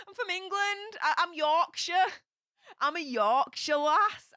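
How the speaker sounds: playful indignant correction; emphatic protest. Real, not acted. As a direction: set the record straight, proudly. Protesting she isn't Welsh.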